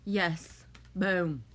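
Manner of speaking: a loud, triumphant burst; excited. Real, not acted. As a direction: punch it out like you just won. Celebrating a sync in chat.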